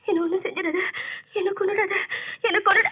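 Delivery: rising panicked plea; frightened pleading. Acted. Woman pleads with the ghost not to kill her. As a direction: beg not to be killed.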